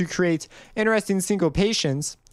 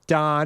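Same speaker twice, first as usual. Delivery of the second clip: long "da" with a firm accented start; legato accent; 2 semitones lower than usual. Shown as a demonstration. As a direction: lean into "da" and let it ring. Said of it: "We have accent, legato accent".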